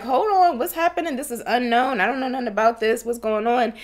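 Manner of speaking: high, anxious questioning; mock worried guests. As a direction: play the nervous guest.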